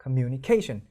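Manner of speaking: communication slowed with the heavy beat on -ca; main stress late. Shown as a demonstration. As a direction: lighten the com- and lean on -ca in communication. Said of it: "같은 강세가 아니라".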